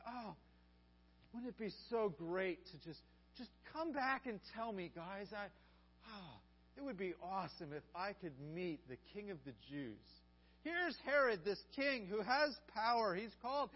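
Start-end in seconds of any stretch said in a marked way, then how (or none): 0.1-10.0 lightly hissing, fawning flattery; sly snake voice. Shown as a demonstration. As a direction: coax them like a sly serpent. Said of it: "you have to read this like a, like a snake with a, a slivering tongue".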